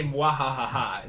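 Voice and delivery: slow spoken evil mwahaha; sneering panto villain. Acted. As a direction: risata lenta e beffarda. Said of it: "a deep, gravelly voice".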